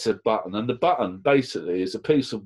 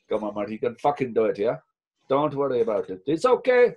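put-on Indian accent; 2 semitones higher than usual. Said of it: "Sorry about the accent".

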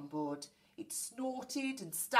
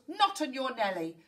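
loud, high dismissive captain; roared refusal; 5 semitones higher, 6 dB louder than usual. A narrator's reading. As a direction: roar the refusal at the crew. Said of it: "he roared".

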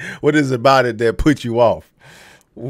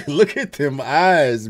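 laughing; 3 semitones higher, slower than usual. Real, not acted. Laughing at a contestant's face.

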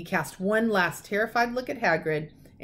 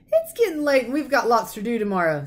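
louder, changing subject; loudly; 4 semitones higher, 5 dB louder than usual. A narrator's reading. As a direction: say it loud to cut him off. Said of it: "said Hagrid loudly".

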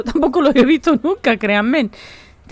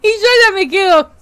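laughing; 5 semitones higher, 4 dB louder than usual. Real, not acted. Laughing fit over grandpa image.

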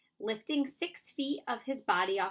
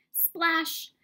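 high, loud burst; loud exclamation; 7 semitones higher, 7 dB louder than usual. A narrator's reading. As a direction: punch the sound word out. Narrated splash sound effect.

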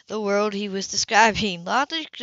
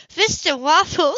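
higher, slower puzzled woman; a woman baffled, voiced higher; Sybil's voice; 8 semitones higher, 5 dB louder, slower than usual. A narrator's reading. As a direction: let her confusion slow the words.

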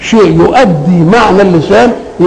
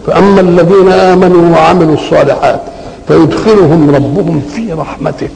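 Quran recitation. Acted. Teacher reciting the verse to students, measured recitation.

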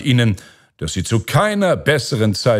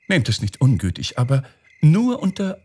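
high owl character voice, politely hedging; apologetic owl princess; 6 semitones higher than usual. Acted. Owl naming her condition to the Caliph, apologetic high voice. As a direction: pitch it up as the owl setting terms.

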